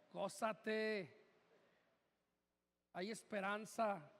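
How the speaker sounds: low, soft mock comfort; mock consoling. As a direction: offer hollow comfort quietly, drawn out. Imagined cheering-up Jesus didn't say.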